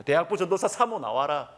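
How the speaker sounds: milder, half-voiced mock shout; retold yell. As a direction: imitate the angry summons at reduced force. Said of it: "고래고래 막 가음을 지르는".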